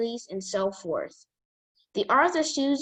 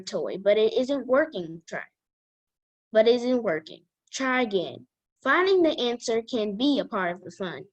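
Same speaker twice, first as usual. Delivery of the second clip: put-on careful, even read-aloud voice for young listeners. Child reading a self-help book to the girls' chat, careful read-aloud voice. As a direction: read each sentence out like a school book report.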